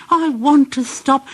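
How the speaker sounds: high pleading engine voice; high weary whine; tired Percy. A narrator's reading. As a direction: plead to stop.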